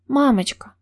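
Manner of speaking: put-on high-pitched sleepy child calling out; сонная малышка. A narrator's reading. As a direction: call for mom like a drowsy, whimpering little girl. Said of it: "сонно зовёт София и начинает хныкать". (высокий сонный детский голосок)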